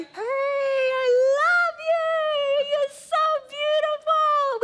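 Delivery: high, loud, tender adoring voice; adoring God voice. Acted. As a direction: gush over a beloved child. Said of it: "And he's there going".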